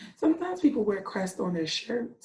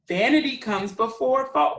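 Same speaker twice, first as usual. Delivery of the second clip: scolding; 4 semitones higher, 5 dB louder than usual. Acted. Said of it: "they scolded".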